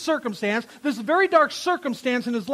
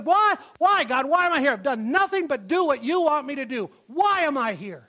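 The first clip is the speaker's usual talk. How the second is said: mock self-pitying complaint; 2 semitones higher than usual. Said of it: "He's not sitting there questioning God and wondering why".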